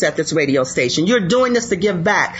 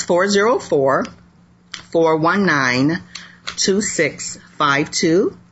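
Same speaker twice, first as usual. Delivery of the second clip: slow, spaced-out phone number; reading digits one by one; 2 semitones lower, slower than usual. Shown as a demonstration. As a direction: read each digit slowly and clearly. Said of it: "let me give that out".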